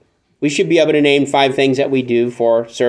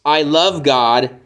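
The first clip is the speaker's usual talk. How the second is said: slow demo reading; much slower than usual. Shown as a demonstration. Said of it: "it's phrased like this".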